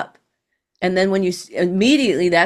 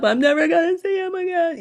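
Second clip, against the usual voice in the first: imitating sad thought; 11 semitones higher than usual. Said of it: "when you very sad and then the thought comes up".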